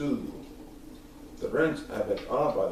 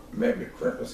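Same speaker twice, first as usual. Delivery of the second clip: Grinch musing; 6 semitones higher than usual. Acted. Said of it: "he thought".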